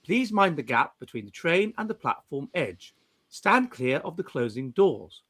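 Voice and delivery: lightly imitated automated platform announcement; modern station announcer. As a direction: read it out as an understated, routine station notice. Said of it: "rather than".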